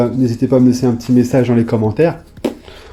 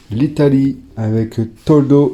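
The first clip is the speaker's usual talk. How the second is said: bad Italian accent. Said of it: "je fais très mal l'accent italien".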